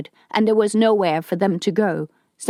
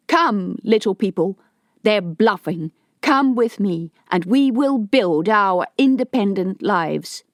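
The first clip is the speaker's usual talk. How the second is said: mild raised rallying call; yelling over the top. Acted. Harto calls the people to join him, mild yell. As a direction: shout above the loudspeaker to the crowd. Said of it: "Harto yelled over the top".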